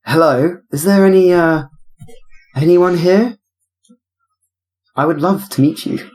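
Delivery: put-on plummy upper-class English accent; old money accent, high and genteel; posh old money accent. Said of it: "my best old money accent".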